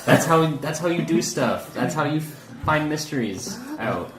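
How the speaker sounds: high, indignant know-it-all; exasperated lecturing. Acted. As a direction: talk down to her, exasperated. Character lectures NPC on detectives.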